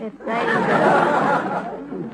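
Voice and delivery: Zuzu drawn out slowly with a giggle; correcting her name. Acted. Correcting Mr Fields, she slowly stretches out Zuzu. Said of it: "Hello, Zuzu".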